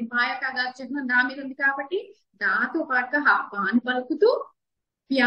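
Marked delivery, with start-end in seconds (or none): 5.1-5.3 ప్యా with the vowel held long. Shown as a demonstration. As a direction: stretch the ఆ at the end of ప్యా. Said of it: "దీర్ఘంగా పలుకుతాం". (ప్యా దీర్ఘంగా సాగదీసి)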